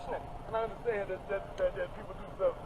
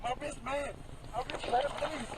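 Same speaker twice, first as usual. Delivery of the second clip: in pain; 3 semitones higher, slower than usual. Real, not acted. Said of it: "he's clearly already quite distressed".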